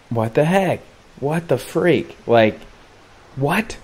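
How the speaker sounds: high-pitched, mock-incredulous outburst; rising disbelief. Disbelief at heading for pier.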